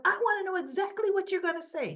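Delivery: high, fast, pressing demand; agitated demand. Retold or imitated. Lucy demands to know what he'll tell Tracy, agitated. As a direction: voice jumps up in urgent insistence.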